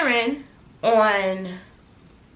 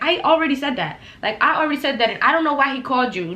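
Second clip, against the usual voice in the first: raised, insistent retort; retold angry reply; 4 semitones higher, 3 dB louder, faster than usual. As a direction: throw it back at her, fed up. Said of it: "now at this point, I'm mad".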